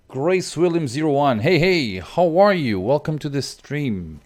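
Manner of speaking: cheerful greeting. Real, not acted. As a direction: greet a new viewer brightly. Greeting a chat viewer.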